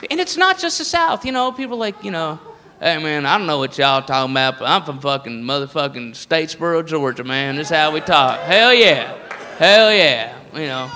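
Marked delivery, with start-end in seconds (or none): 2.8-10.3 mock Georgia redneck. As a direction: put on a redneck accent, pitched down. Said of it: "the redneck voice is all over".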